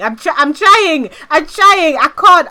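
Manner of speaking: high, loud, strained through giggles; fighting back laughter; trying not to laugh. Real, not acted. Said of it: "give me a second to stop smiling".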